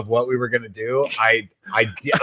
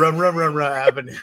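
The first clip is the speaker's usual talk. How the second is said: mocking mumble; 3 semitones higher than usual. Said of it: "about you mumbling".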